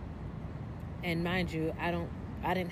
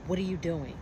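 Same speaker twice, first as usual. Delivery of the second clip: a retold, mildly condescending question; imitating a charge nurse talking down, slightly louder; 3 dB louder than usual. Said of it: "in, like, a very condescending, disrespectful tone".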